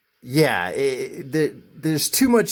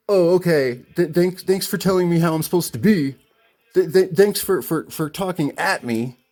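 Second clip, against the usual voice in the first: higher, stammering mock gratitude; sarcastic thanks; 4 semitones higher than usual. Customer leaving store feeling talked at, sarcastic. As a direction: stumble through fake thanks, pitched up.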